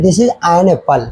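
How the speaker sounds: This is an apple, each word spaced out; slow example sentence. Shown as a demonstration. Teacher to pupils, slow model sentence. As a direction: read the sentence slowly for learners. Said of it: "जैसे हम लोग कहते हैं".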